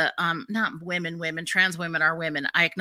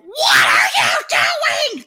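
high furious scream at them; outraged shout; 14 semitones higher, 8 dB louder, much slower than usual. Retold or imitated. Yelling at the gay guys, high shocked scream. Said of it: "And I just went".

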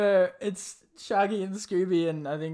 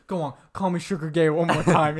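louder, imitated in-your-face challenge; confrontational dare; 3 semitones lower, 6 dB louder than usual. Storyteller as singer confronting the kid, mock menace. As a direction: goad him like an angry singer. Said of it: "right up in his face".

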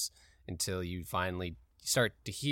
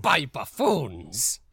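pirate voice; 7 dB louder, much slower than usual. Acted. Pirate captain echoes.

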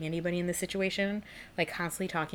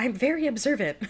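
mock exasperation; 7 semitones higher, 3 dB louder than usual. MJ voiced, continuing to Peter.

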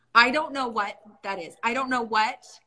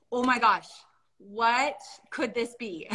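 curious wonder; slower than usual. Retold or imitated. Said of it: "to this".

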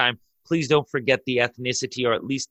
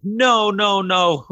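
higher, louder, protesting no; crowd protesting; 8 semitones higher, 5 dB louder, much slower than usual. Retold or imitated. The crowd to the police, a loud protesting cry. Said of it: "the crowd was like".

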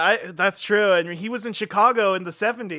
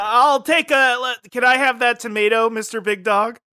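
higher and louder asking; high pleading voice; 5 semitones higher, 5 dB louder than usual. Acted. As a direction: beg for the tomato eagerly. Trying to grab the tomato.

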